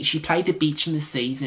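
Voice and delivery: put-on a light, clumsy Aussie accent on the line; bad Australian accent. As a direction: try an Australian accent and miss it a bit. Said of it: "Sorry about my horrible Australian accent".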